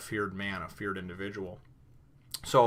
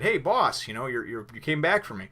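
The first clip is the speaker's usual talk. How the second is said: mock cheery girl; 4 semitones higher, 5 dB louder than usual. Nami playing it off, retold.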